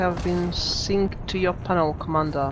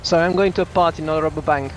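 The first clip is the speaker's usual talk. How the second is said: said louder and quicker; louder, repeated; 3 semitones lower, 3 dB louder, faster than usual. Real, not acted. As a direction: speak up so they hear you. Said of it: "Speak up".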